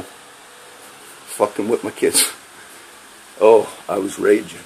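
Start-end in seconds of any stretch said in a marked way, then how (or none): 0.0-2.3 slow, breathy whispered fury; seething whisper. Real, not acted. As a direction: spit each word out slowly under your breath. Rant about cops harassing kids.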